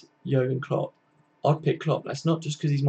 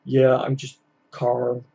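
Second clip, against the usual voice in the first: mock calm Rodgers; much slower than usual. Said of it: "Brendan Rodgers was very much like".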